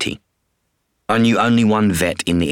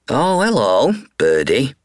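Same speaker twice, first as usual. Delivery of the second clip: vet murmuring to bird; 6 semitones higher than usual. Acted. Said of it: "she murmured".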